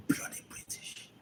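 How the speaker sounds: breathless whisper, no voice at all; whispered bloody British. Acted. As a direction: hiss it under your breath like a secret. Whispered aside.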